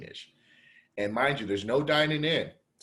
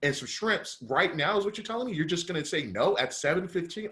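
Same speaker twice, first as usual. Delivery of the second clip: outraged rant; 5 semitones higher than usual. Retold or imitated. Customer ranting at restaurant staff refusing his order, high indignant disbelief. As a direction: lay into them, pitch up and incredulous. Retold rant at closed kitchen.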